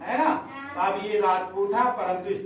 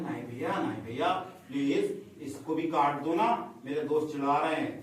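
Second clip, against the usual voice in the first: small pleading mouse; 6 semitones lower, 6 dB quieter than usual. Acted.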